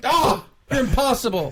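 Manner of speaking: high, laughing exasperation; exasperated Square voice. Acted. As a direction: throw up your hands in mock despair.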